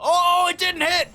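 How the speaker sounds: high, loud burst of surprise; loud caster's yelp; excited outcry. Real, not acted. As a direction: cry out at the near miss. Live caster reacting to a miss.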